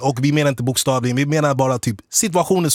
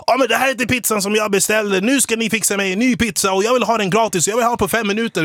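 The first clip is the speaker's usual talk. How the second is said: high-pitched mock ranting, volume held in; retold angry yelling; 6 semitones higher than usual. Rude customer yelling at pizza staff, retold high-pitched rant. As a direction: imitate an irate customer complaining. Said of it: "skriker jättehögt".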